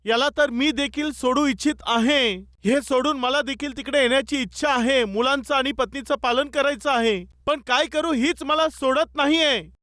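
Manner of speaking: mild mock yell; man calling back. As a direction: imitate a helpless man calling to shore. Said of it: "तो तिकडून ओरडू लागला".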